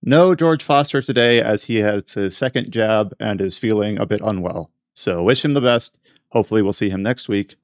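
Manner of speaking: talking with mouth full; words round a mouthful of breakfast. Real, not acted. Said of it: "my mouth is full of".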